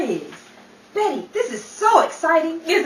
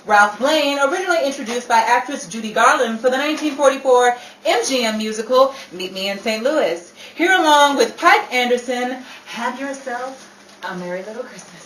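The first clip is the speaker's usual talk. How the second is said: show announcer; 4 semitones lower than usual. Acted. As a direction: present the singer to the audience. Announces the next musical act.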